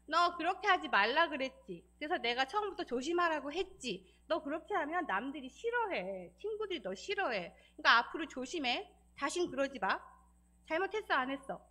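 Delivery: firm mock scolding of a child; imitating a scolding mother. Mother scolding her child who keeps misbehaving, firm mock scolding. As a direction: play the mother laying down the law, half-acted. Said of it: "어른들이 아이를 혼내는 걸".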